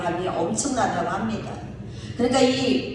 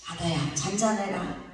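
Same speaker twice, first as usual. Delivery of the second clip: low, soft, steady "잔잔해라"; just one calm word to still the sea; calm command; 4 semitones lower, 7 dB quieter than usual. Retold or imitated. Jesus quietly rebuking the sea, soft authority. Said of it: "말 한마디에".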